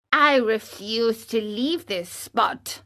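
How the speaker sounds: the cricket calmly refusing to leave; stubborn cricket. Acted.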